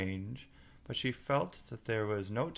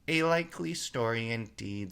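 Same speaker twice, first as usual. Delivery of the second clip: scornful sneer, a touch louder; contemptuous; 2 semitones higher, 4 dB louder than usual. Acted. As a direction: scoff at the lie. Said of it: "in a tone of the deepest contempt".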